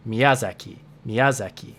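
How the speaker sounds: ya in Miyazaki stressed English style. Shown as a demonstration. Teacher repeats the stressed English Miyazaki. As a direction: lean on the ya of Miyazaki. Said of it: "the way to say the name as that".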